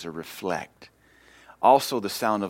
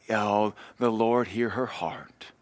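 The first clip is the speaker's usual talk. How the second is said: whisper; slower than usual. Retold or imitated. Imagined pious whisper.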